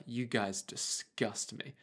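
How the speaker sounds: imagined French listener. Retold or imitated. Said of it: "French listener be like".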